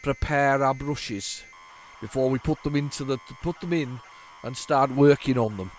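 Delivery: droll man with a Brummy lilt; Brummy accent. Pretend. Droll man on a tape explaining how to prepare brushes, light Brummy accent. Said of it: "That was more Brummy than anything else".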